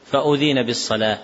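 "فأذن" with a single, light dh, "fa-ūdhina"; don't double the dh in "فأذن". Shown as a demonstration. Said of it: "هي بالتخفيف". ("فأذن" بالتخفيف دون تشديد)

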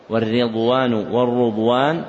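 والرضوان said first as "ridwan" with the ra given kasra, then as "rudwan" with damma; two readings shown. Shown as a demonstration. Teacher shows students both readings of والرضوان, ridwan then rudwan. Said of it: "والرضوان تكسر راؤه وتضم".

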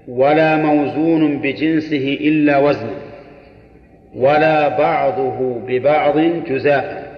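slow, deliberate reading of the text. Shown as a demonstration. Teacher reading the rule aloud to students, slowly. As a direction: dictate each word slowly for the students.

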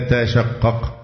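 تشقق with both original t sounds spoken, "tatashaqqaq"; unmerged double ta. Shown as a demonstration. Teacher showing the original form, تشقق with both ta sounds unmerged. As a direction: sound two separate ta syllables opening تشقق. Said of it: "بإدغام التاء الثانية في الأصل".

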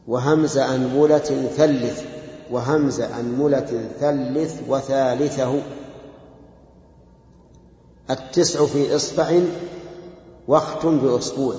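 slow, measured recitation of a verse. Acted. Teacher quotes the versifier to students, slow verse recitation. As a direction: recite the line slowly for learners to follow.

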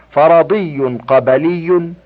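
فرضي and قبلي with a short "a" on first and second letters; fatha pronunciation. Shown as a demonstration. Reader shows nisba forms of plural nouns, فرضي قبلي with fatha. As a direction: open the first two syllables of فرضي and قبلي with "a". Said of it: "بفتح أولهما وثانيهما".

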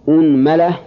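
أنملة as "unmala", u first, a after mim; damma then fatha. Shown as a demonstration. Teacher listing the damma set, أنملة as "unmala". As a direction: say أنملة with opening u and middle a. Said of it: "ضم الهمزة".

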